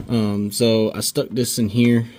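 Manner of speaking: winded, breathless speech; out of breath. Real, not acted. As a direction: talk while catching your breath. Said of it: "I'm out of breath".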